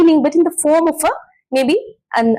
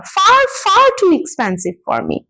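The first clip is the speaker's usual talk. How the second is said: both "far"s raised high and stressed; emphatic repetition; 6 semitones higher than usual. Shown as a demonstration. Teacher repeating the example for students, emphatic "far, far". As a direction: exclaim it, pressing on "far, far". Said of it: "you're repeating the word".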